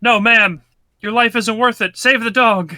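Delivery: high, earnest action-hero voice; heroic movie voice. Pretend. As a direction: play the gallant rescuer. Voicing movie hero dialogue.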